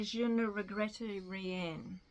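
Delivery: slow, clumsy French accent on the French line; butchered French accent. Shown as a demonstration. Vlogger names a singer's famous song, mangled French accent. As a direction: say the French title haltingly, badly accented. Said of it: "butchered the French accent again".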